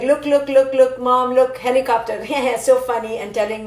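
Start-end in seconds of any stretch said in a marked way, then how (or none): 0.0-2.2 put-on excited child. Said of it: "she was like".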